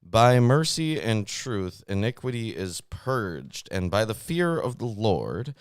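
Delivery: slow, solemn Bible reading; scripture reading. Acted. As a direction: read it out like scripture, slowly. Reads proverb aloud.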